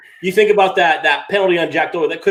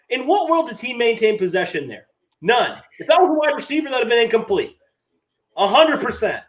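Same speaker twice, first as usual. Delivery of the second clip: exasperated rant at the refs; 3 semitones higher than usual. Real, not acted. Fan venting about a bad interception call, fed up and indignant. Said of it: "I got a rant".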